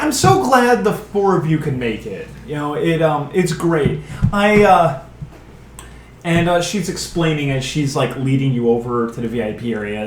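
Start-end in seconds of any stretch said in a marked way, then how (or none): 0.0-5.0 welcoming host voice. Acted. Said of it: "Ariel's like".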